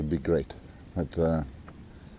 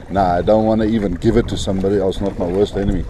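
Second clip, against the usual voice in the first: raised voice, higher and louder; shouting over wind; 3 semitones higher, 6 dB louder than usual. Real, not acted. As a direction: call out over the gusts. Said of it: "I hope you can hear me, over the wind".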